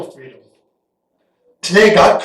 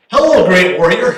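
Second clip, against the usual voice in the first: God's greeting; 6 dB louder than usual. Retold or imitated. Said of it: "God comes up to him and says".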